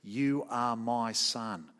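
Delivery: drawn out, slow and gentle; slow tender declaration. Acted. Preacher voicing God at the baptism, slow and tender. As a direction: speak it slowly as a father's blessing. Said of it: "God speaks from the heavens and says".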